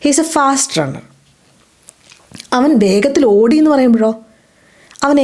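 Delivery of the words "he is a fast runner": slow, careful teacher read; deliberate classroom pronunciation; slow model sentence. Shown as a demonstration. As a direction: spell it out slowly for learners. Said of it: "ഫാസ്റ്റ് റണ്ണർ".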